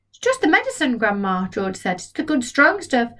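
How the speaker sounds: calm her down; reassuring boy. Acted. George voiced.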